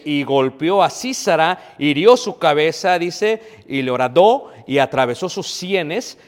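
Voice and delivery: emphatic preacher reading, verse by verse; scripture reading. Real, not acted. Preacher reads the verse to the congregation, emphatic scripture reading. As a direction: read scripture aloud, punching each phrase.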